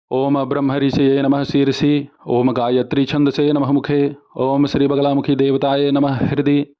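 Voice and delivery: monotone Sanskrit chant; mantra recitation. Shown as a demonstration. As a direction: intone each line on a level note. (एक सुर में मंत्रोच्चार)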